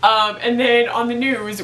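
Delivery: ordinary talk, nothing marked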